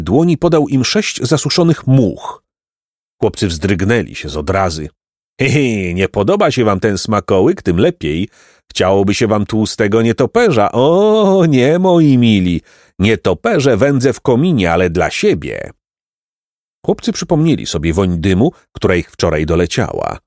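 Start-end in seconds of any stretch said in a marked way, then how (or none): 5.4-15.7 lightly voiced gloating monster; mocking sorcerer. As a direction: chuckle and tease, drawing out the refusal. Czarownik drwi z chłopców. (lekko zaznaczony, drwiący głos czarownika)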